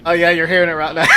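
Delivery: laughing. Real, not acted. Asked for New Zealand accent.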